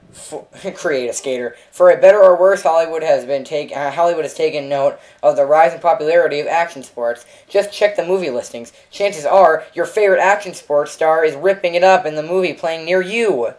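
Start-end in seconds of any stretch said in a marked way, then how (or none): 1.7-13.5 promo announcer read. Acted. Gamer reads mission blurb aloud, announcer style.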